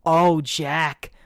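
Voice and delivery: hammed-up pleasure moans; mock moaning. Guy joking about a hookup, mock moaning. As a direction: fake a breathy climax for laughs.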